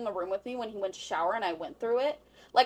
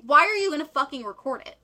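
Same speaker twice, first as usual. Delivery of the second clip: raised, exasperated question; incredulous outburst; 5 semitones higher, 11 dB louder than usual. Real, not acted. Friend venting about the cheater's sex tape, incredulous. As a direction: demand it loudly in disbelief.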